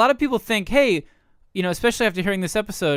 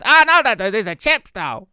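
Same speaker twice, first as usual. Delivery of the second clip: mock British accent; 3 semitones higher, 5 dB louder than usual. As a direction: insist like a cheeky Londoner. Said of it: "the U K".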